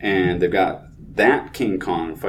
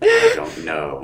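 much higher, shaky horror victim; high scared movie voice; much slower than usual. Pretend. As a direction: play the frightened patient. Acted horror movie reply.

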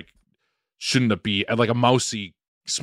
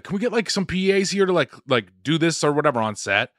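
obnoxious mock call; 5 semitones higher than usual. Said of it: "And he was like".

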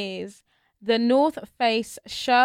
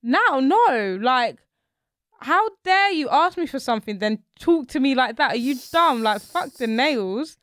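angry; 3 semitones higher, 5 dB louder, slower than usual. Retold or imitated. Friend's angry reply acted out.

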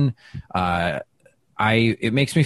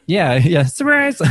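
laughing echo; 8 semitones higher, 5 dB louder than usual. Real, not acted. Echoing surprise, laughing.

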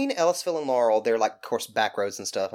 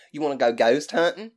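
louder, exaggerated Southern invitation; thicker Southern accent; 3 semitones higher, 5 dB louder than usual. Friends invite the speaker out ghost hunting, thick Southern accent. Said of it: "Or, excuse me".

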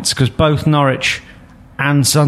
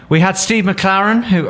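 quoting the player; 8 semitones higher than usual. Retold or imitated. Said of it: "I'm not doing the Nottingham accent".

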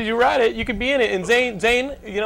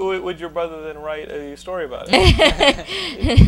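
slow, laughing teasing question; laughing tease; 2 semitones higher, 7 dB louder, slower than usual. Real, not acted. Host teasing the actress about her brother, laughing.

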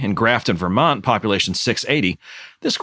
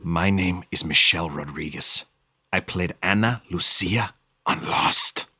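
mock Michelle Rodriguez; 7 semitones lower, 4 dB quieter than usual. The speaker voicing Michelle Rodriguez.

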